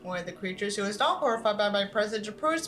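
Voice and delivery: steady storytelling read; story narration. Acted. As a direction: read the tale to the audience. Reads a horror story aloud.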